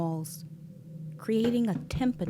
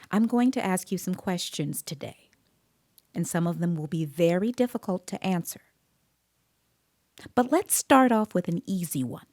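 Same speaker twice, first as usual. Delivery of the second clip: put-on talking to a child; 3 semitones higher, 3 dB louder than usual. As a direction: coax a nervous boy into talking. Interviewer easing a child into questions.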